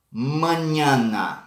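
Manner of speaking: mañana said with the Spanish ñ, slowly; mañana, the ñ pronounced like Portuguese nh; Spanish ñ sound. Shown as a demonstration. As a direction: say mañana carefully with the ñ. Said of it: "a la ñ em espanhol".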